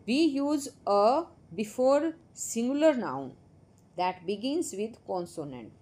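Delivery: slow, careful reading of the rule; textbook rule read aloud. Shown as a demonstration. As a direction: read the grammar rule slowly for the class. Reads rule from textbook slowly. (किताब से नियम धीरे पढ़ना)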